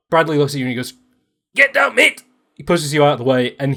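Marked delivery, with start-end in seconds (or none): 1.6-2.2 high, loud urgent yell; urgent warning shout. Acted. Bradley to player as the shot comes, urgent shout. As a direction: shout it to save a friend.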